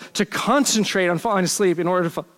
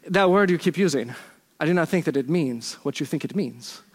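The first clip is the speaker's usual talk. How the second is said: badly faked Spanish accent; 2 semitones lower than usual. Preacher quoting Inigo to the Sicilian, weak Spanish accent. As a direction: attempt a Spanish accent without quite getting there. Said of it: "with his Spanish accent that I can't do".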